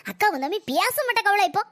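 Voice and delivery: crying through the words; tearful lament. Acted. Mother-in-law weeping that her daughter no longer visits, crying. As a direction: sob it out in grief.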